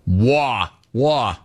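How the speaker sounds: lightly mocking New York accent; a hint of New York in the word. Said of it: "Bro, are you from New York?".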